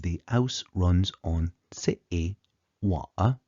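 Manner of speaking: Cockney, H dropped and T's swallowed; slow Cockney demo with dropped consonants; Cockney accent. Shown as a demonstration. Lecturer showing the dialect change in the hotspots, slow Cockney accent. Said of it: "Instead, we have".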